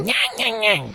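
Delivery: mock the pundit's whine in an imagined shouting match; whiny voice. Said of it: "He'd be like".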